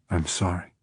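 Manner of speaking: soft, hushed condolence; barely above a whisper. A narrator's reading. Holly comforting Crawford about his wife's death, hushed. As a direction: say it softly, almost whispering. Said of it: "Speaking barely above a whisper".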